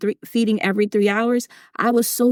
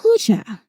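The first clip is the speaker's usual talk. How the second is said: breathless whew; 3 semitones higher than usual. Real, not acted. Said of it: "let me catch my breath".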